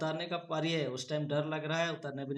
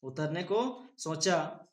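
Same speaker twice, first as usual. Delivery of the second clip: word by word, slowly; a teacher reading slowly to spell; slower than usual. Shown as a demonstration. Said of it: "उ तो रो नमक ने का पड़ेगा?".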